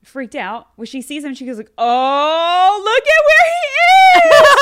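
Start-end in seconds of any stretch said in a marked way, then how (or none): 1.8-4.6 squealing, much higher and louder, drawn out; overexcited kid squeal; super dramatic. Retold or imitated. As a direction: gush like a thrilled kid finding the elf. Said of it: "she's, like, super dramatic".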